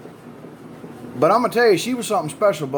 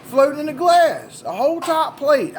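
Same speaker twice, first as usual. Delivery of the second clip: higher, mock startled outburst; shocked disbelief; 10 semitones higher than usual. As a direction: act out stunned surprise at the teeth. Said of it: "I'm like".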